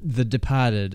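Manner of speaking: Boston "Departed" with no R; Boston accent. Shown as a demonstration. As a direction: say "Departed" as "De-pah-ted", Boston style. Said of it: "say it right".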